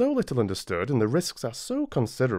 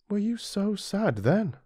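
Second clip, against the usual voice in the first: gentle concern; 10 semitones higher than usual. Acted. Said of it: "I asked".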